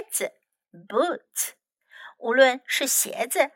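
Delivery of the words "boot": "Boot" lower and softer, rising; soft repeat. Shown as a demonstration. Teacher repeats "Boot" for kids, softly. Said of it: "let's practice some useful expressions".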